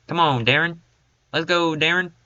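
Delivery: a hint of a Southern accent on the name. Real, not acted. Player urging his running back on, lightly Southern. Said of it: "saying your name like that".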